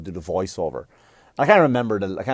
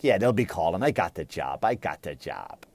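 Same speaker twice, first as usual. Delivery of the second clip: sarcastic self-assurance; 5 semitones lower than usual. Retold or imitated. Sarcastic self-talk after failed audition.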